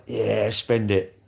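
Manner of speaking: long drawn-out, easygoing yeah; mock carefree spender. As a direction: stretch it out slowly like a careless spender. Acting out a carefree rich spender.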